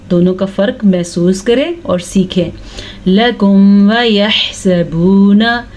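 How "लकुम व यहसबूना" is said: slow chanted verse; slow recitation. Shown as a demonstration. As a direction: recite slowly. (धीमी तिलावत)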